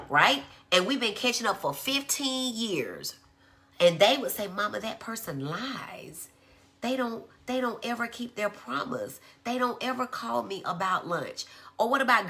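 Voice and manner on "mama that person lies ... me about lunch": put-on child's complaint. Acts child complaining to mama.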